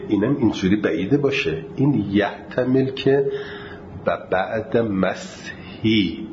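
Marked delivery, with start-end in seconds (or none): 4.1-6.3 مسحی drawn out slowly; wrong pronunciation. Shown as a demonstration. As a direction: spell out مسحی with both sounds. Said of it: "دو تا ه پشت سر هم و سین ساکن اصلاً نمیشه". (مسحی آهسته و کشیده)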